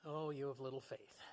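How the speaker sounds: a gentle sigh of disappointment; disappointed. Acted. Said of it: "with probably some disappointment".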